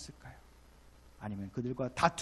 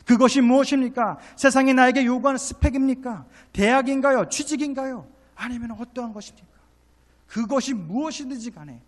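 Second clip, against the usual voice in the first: loud, high volley of challenging questions; fervent preaching; 11 semitones higher, 15 dB louder than usual. Real, not acted. Preacher challenging congregation about worldly demands, fervent. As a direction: fire the questions out at full force.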